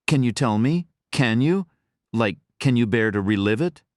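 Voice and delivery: sarcastically overly gentle and concerned; mock caring voice. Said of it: "breathy voice brimming with care and consideration".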